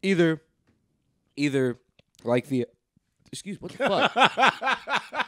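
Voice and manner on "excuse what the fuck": hiccup breaks the words. Real, not acted. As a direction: speak through sudden hiccups. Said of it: "You hi-, hiccuping?".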